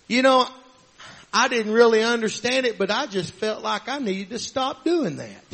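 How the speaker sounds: a hushed, humbled admission; soft confession. Retold or imitated. A churchgoer quietly admitting change, in a soft voice. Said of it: "And you go something like this".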